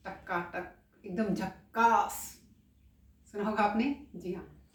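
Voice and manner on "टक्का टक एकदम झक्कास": slangy praise. Shown as a demonstration. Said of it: "कई को अपना अंदाज होता है".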